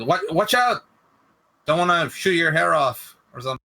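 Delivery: high-pitched call-out in character; mock warning yell. Player's character warns Core before shooting, high mock yell. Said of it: "I yell at Core".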